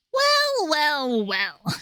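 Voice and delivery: voice warm-up. Shown as a demonstration. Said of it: "warming up the Shadow Milk voice".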